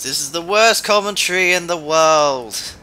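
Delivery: loud, high-pitched hammed-up commentator; silly put-on voice. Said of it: "Why do I keep on doing this voice?".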